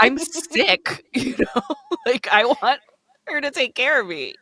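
high, laughing sick whine. Retold or imitated. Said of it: "And I'm like".

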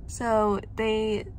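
speaking with lip held back; talking around fingers at mouth; fingers pulling lip down. Real, not acted. Seen 4: Fingers pull lower lip back, baring braces while speaking; again 3.0–4.9.

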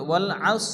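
আস with a thick, full s, lips lightly rounded; heavy emphatic s closing আস; rounded heavy sad. Shown as a demonstration. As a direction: round the mouth slightly on আস. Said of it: "মুখটা হালকা গোল করে".

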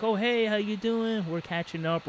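friendly greeting. Retold or imitated. Cleaner greeting the customer at her house, friendly.

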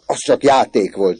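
loud, high protest; crying out. A narrator's reading. Orci assuring his mother, crying out. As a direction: call it out to clear things up. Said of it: "kiáltotta Orci".

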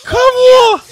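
loud question. Real, not acted. Can't hear, confused shout.

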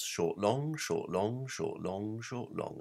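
"short, long" beaten out like a metronome; iambic rhythm. Shown as a demonstration. Lecturer demonstrating the meter to his listeners, rhythmic. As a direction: tap out the iambs, weak then strong. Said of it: "Those are called iambs".

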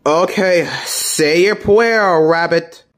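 slow, lightly voiced cartoon hunter; hunter role. Daffy playing hunter to the rabbit, lightly voiced hunter role.

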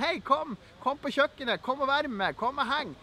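lightly acted, easygoing invite; casual acted invitation. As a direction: coax a guest over, light and informal. Acting out inviting a guest in.

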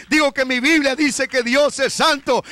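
insistent preacher's repeat. Shown as a demonstration. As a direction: drive the point home, raise the voice.

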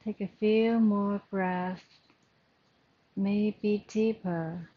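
measured meditation guidance with long pauses; guided breathing meditation. Acted. Yoga teacher settling the class into their breath, calm guided meditation. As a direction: lead the breathing calmly, leaving space between phrases.

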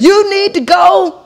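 slow shout on the insult; shouted retort. Retold or imitated. Snapping back at the neighbour, shouting. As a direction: yell it at her slowly. Heated exchange at the door.

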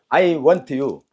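"I want you" word by word, T kept apart from "you"; slow separated words. Shown as a demonstration. Teacher breaks it down for students, slow separated words. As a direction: spell out "I want you" slowly, unblended. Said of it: "빨리, I want you".

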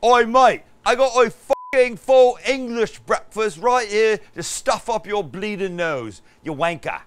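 put-on loud, high cockney yob in an East London accent. Asked to do East London, host bellows a cockney insult. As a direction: shout it like an East London geezer. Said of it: "now East London".

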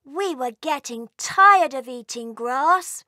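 a cheeky sibling welcoming him home; cheeky elf sibling teasing the returned brother, high and loud; Elphitrix. Acted. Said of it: "said Elphitrix".

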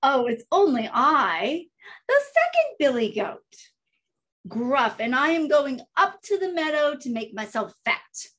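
lightly voiced middle goat; medium-sized goat voice. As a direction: speak up as a not-so-small goat. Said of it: "his voice was not so small".

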